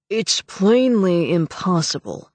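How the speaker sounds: slow, indignant official voice; scornful dismissal. Acted. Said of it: "Morland was saying indignantly".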